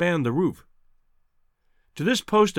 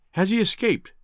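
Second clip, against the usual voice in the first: anxious question; 6 semitones higher than usual. A narrator's reading. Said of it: "she asked".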